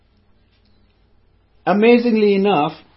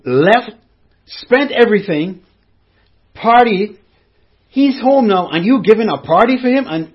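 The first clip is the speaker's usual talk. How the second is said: angry complaint. Retold or imitated. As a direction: play the resentful elder son venting. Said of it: "And the son was angry".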